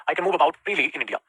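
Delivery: slow, word by word; slow dictation. Shown as a demonstration. Teacher reading the sentence slowly for copying. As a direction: dictate it clearly. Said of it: "teacher dictates sentence".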